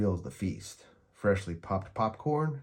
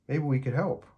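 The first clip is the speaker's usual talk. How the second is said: Linus speaking; 6 semitones higher than usual. A narrator's reading. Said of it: "he says".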